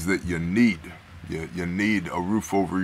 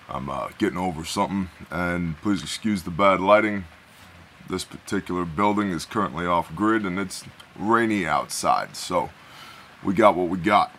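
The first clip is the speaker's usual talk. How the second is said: hoarse, rough-throated voice. Real, not acted. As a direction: speak with a rough, sick voice. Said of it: "excuse my, uh, rough voice".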